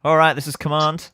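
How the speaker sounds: loud, formal command over comms; radio commander voice. Acted. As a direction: call it in like an officer on the radio.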